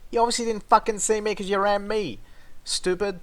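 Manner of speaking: angry yell. Retold or imitated. Telling off the driver who hit him, retold yell. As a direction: blast her for ramming you.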